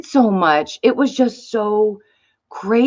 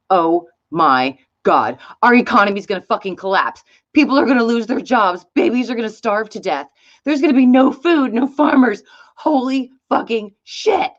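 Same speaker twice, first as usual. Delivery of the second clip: higher, hammed-up alarmed rant; mock panic speech; 3 semitones higher than usual. What people wanted Trump to say, mock panicked rant. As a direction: play the doomsayer he didn't become. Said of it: "To stand up there and say".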